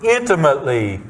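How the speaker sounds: "intimately" set apart as the key word; stress on intimately. Real, not acted. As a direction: lean deliberately on "intimately", with a falling finish. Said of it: "here's the word".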